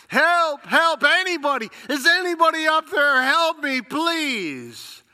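high, loud desperate calls for help; cry for help. Acted. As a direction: yell up the cliff, hanging on for dear life. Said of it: "He cried out for help".

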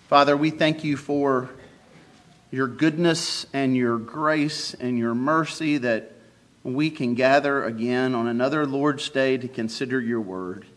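earnest pastoral prayer. Acted. Pastor leads congregation in prayer.

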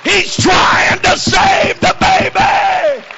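high, shouted sermon climax; impassioned revival shout; full-force preaching. Real, not acted. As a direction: cry it out to the whole church, stretching the key words.

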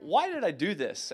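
exasperated regret. Retold or imitated. Recalls regretting signing up.

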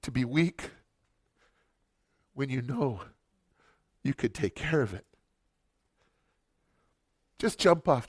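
quiet confession of rage; hushed and heavy. Real, not acted. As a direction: drop almost to a murmur.

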